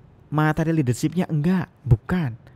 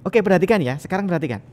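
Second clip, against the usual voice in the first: higher opening on "Oke perhatikan ya"; intonation with gestures; 4 semitones higher than usual. Shown as a demonstration. Lecturer showing students a contrasting call for attention, with animated intonation. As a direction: urge "perhatikan" with energy. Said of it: "Beda dengan".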